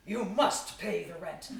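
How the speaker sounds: slow hammy villain demanding rent; mustache twirling villain. Acted.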